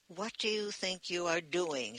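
ordinary delivery

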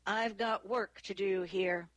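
understated stern dismissal. A narrator's reading. Sergeant dismisses two quarrelling officers, mildly stern. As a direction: close the matter firmly. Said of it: "said in a stern voice".

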